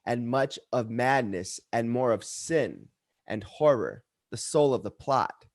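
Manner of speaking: measured, dramatic verse reading with deliberate pauses; poem recitation. Acted. Reciting The Conqueror Worm at an open mic, dramatic poetry reading. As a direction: recite it like dark Gothic verse.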